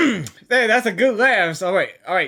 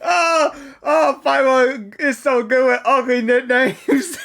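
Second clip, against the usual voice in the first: laughing; slower than usual. Real, not acted. Laughing at Paimon's nicknames.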